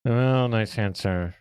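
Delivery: slow, through clenched teeth; through gritted teeth. Real, not acted. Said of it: "I'm speaking through my teeth".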